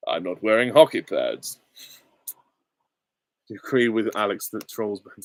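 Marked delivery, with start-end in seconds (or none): 0.1-1.6 measured, slightly lower suave actor voice; Roger Moore. Acted. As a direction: deliver it as a debonair screen spy. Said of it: "and I was Roger Moore".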